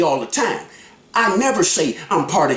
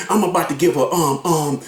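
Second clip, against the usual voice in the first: halting retelling; 5 semitones lower than usual. Retold or imitated. Man shows exactly how it was said, halting re-enactment. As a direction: re-enact a hesitant announcement, stalling on repeated ums. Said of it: "exactly how I did it".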